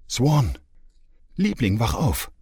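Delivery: a call heard from far off, through a dream; mother calling her child's name across the room; distant call. Acted. Mother waking her daughter, calling out.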